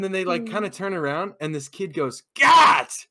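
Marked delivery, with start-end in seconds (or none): 2.3-3.1 high, explosive mock shout; imitated kid's yell. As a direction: yell it out like a rowdy high schooler. Kid yelling at fleeing girls, retold.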